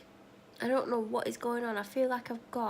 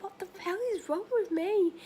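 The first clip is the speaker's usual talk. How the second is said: exasperated; 9 semitones higher, 4 dB louder than usual. Retold or imitated. Exasperated at herself.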